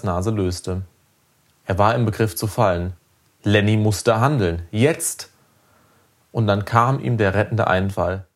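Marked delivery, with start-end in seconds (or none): 4.7-5.3 urgent. A narrator's reading. Narrated moment of urgency.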